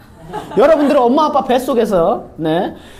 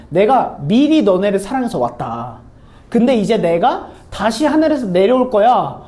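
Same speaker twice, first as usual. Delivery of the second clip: lower, slow, grand voice of a self-declared messiah; mock messiah; 3 semitones lower than usual. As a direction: play the cult leader speaking down to his followers. Cult leader answering as messiah. (거만한 교주 흉내)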